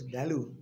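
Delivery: "balloon" said BAL-loon with a flat "a"; wrong balloon. Shown as a demonstration. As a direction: stress the first syllable of "balloon" as the wrong version. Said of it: "not balloon".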